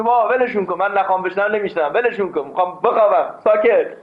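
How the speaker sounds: hammed-up irritation, ending on a sharper ساکت; mock annoyed sleeper. A tired man wanting sleep, mock exasperated. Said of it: "کسی میگه".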